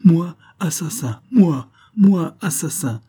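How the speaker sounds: loud, high cry of wounded innocence; mock-indignant outcry, partly hissed; outraged cry. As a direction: fling the word back as an outrage. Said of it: "il s'écria".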